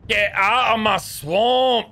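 high, drawn-out mock bellow; hammed-up yell. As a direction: bellow it slowly like a film catchphrase. Quotes film ogre's line as mock yell.

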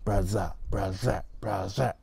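braza with a z where the th should be. Shown as a demonstration. Teacher demos the wrong z sound again, quietly. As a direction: say braza, tongue not reaching out. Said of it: "if it doesn't go out far enough".

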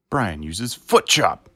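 slow, loud game announcer; Pokémon battle announcer. Pretend. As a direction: call the move like a Pokémon game. Pokémon battle narration parody.

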